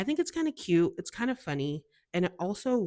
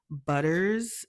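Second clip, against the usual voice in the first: savoured slowly; 4 dB louder than usual. Shown as a demonstration. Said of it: "it just rolls off your tongue".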